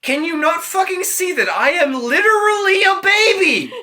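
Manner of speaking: put-on high, loud laugh-yell as the baby; shrieking with laughter as baby Hermes; laughing shout. Baby Hermes laugh-yelling at Apollo, shrieking with laughter.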